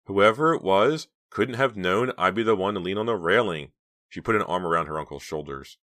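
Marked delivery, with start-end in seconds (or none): 0.1-3.7 placating. A narrator's reading. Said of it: "Justine said placatingly".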